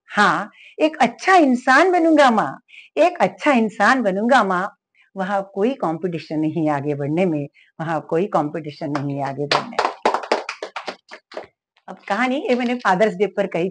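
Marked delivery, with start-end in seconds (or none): 0.1-9.9 innocently. Retold or imitated. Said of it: "बड़ी मासूमियत से बच्चा बोला".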